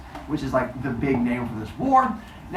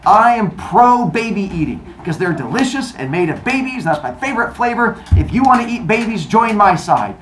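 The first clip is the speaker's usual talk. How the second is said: lightly hammed-up campaign pitch, raised; rally followers with a raised, insistent voice; recruiting Cronus; 5 semitones higher, 3 dB louder than usual. Cronus recruiting gods to his side, raised campaign speech.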